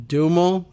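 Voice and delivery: Duhamel squeezed into "DOO-mul"; tentative two-syllable pronunciation. Shown as a demonstration. Host guessing at a senator's last name, Duhamel said as "DOO-mul". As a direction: say Duhamel with the middle swallowed. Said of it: "I don't know how she pronounces this last name".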